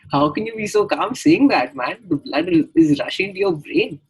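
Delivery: can't believe how calm he is; stoned disbelief. Retold or imitated. Stoned student to his calm friend, high and loud in disbelief.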